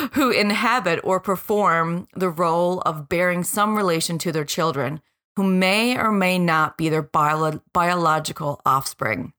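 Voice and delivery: 'who inhabit' with the h dropped. Real, not acted. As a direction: drop the h's in the definition. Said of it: "sorry, I'm dropping my H's now".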